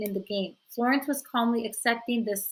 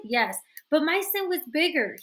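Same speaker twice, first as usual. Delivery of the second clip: snarling; 6 semitones higher, 3 dB louder than usual. A narrator's reading. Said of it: "he snarled".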